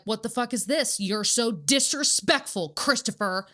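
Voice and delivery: loud, furious confrontation at her son; mock-raging at the roommate who broke it; shouted scolding over the broken skeleton; retold angry outburst. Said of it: "I was like".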